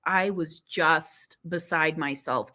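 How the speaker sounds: usual speaking voice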